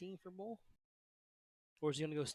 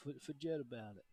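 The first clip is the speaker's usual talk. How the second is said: put-on light New York accent. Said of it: "It's New York".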